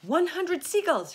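loud, high triumphant count; high-pitched shout. A narrator's reading. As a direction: call out the tally at full voice. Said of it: "he shouted".

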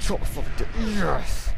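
loud, triumphant shout; hammed-up roar of victory; battle cry. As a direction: yell it as the blow lands. Striking enemy in game fight.

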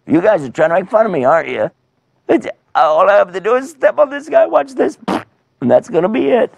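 high-pitched boastful giant; cocky mock-offended challenge; scoffing giant. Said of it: "He said".

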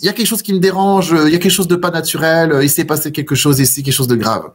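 a hint of an uneasy voice warning that something is wrong; voice of nature. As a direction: nature gently alarmed, hurrying its warning. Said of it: "elle nous disait".

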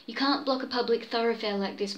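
Mulvaney protesting to the gatekeeper, hotly. Acted. Mulvaney to Jim at the gate, hot protest. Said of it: "Mulvaney cried out hotly".

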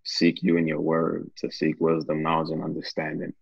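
earnest, steady prayer voice. Acted. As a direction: pray it out with fervour. Leads a closing prayer.

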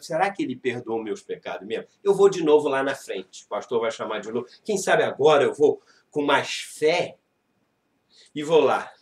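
low, soft fretful musing; anxious believer's low murmur; doubting inner voice. Retold or imitated. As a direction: mutter your doubts to yourself.

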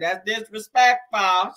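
very slow, stretched-out mock call; mild mock yell, heavily drawn out; yelling old lady. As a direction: imitate an old lady calling out, drawing out every syllable. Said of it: "old lady, uh, yelled up there".

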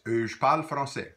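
teacher models euh, je parle français clearly; model phrase. Shown as a demonstration. Teacher models Louisiana French pronunciation for learners. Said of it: "let's try this".

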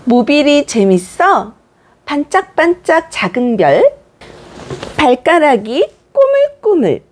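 put-on slow, sing-song short phrases to a baby; simple baby talk. Shown as a demonstration. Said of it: "두세 마디로 간단하고 단순하게 말해주세요". (아기에게 천천히 높은 톤으로 짧게 말하기)

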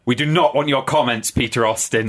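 mock schoolteacher reprimand; stern teacher. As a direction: imitate a teacher's cold rebuke. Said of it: "she went".

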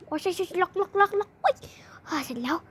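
hushed whisper while locking up. Pretend. Child locking the door, whispering in fear. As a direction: whisper so the zombie can't hear.

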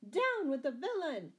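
loud, high rallying yell; shouted command. A narrator's reading. Sheriff rousing his men against Scarlet, shouting. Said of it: "shouted the sheriff".

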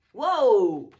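loud startled gasp; startled whoa. Acted. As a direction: jump back in surprise. Cat startled by bouncing rabbit.

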